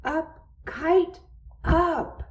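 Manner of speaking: high-pitched excited call; shouting. A narrator's reading. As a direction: cry out for the kite to rise. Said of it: "He shouted".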